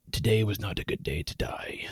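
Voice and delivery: low, hushed whisper; retold whisper. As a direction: whisper it as if into someone's ear. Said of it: "he whispers in her ear".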